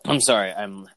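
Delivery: throat rough from hacking cough; coughing fit. Real, not acted. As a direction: talk through a phlegmy cough. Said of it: "I'm hacking and coughing so much".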